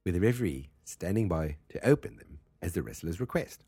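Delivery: attempted Australian accent, reading aloud. Shown as a demonstration. Host tries Australian for the cage rules, Australian accent. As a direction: try an amateur Australian reading. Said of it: "I'm gonna try to do Australian".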